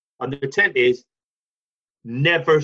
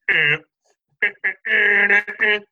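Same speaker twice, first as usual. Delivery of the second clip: mock guitar grunts; 4 semitones higher, 4 dB louder than usual. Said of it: "get some other guy to go".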